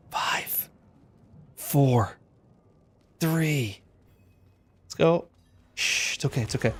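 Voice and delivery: hushed whispered countdown. Pretend. Raid leader whispering the pull countdown to his team. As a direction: whisper it like a secret. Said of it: "I'm gonna whisper".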